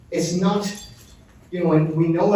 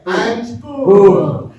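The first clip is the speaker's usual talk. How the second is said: big high shout of boom; 5 semitones higher, 8 dB louder than usual. Shown as a demonstration. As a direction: bellow it out to lead the room. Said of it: "shout boom as loud as you can".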